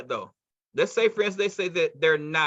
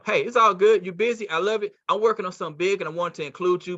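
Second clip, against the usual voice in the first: upbeat hurried pitch. Acted. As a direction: brush it off brightly and press on. Models hurried, upbeat pitch to prospect.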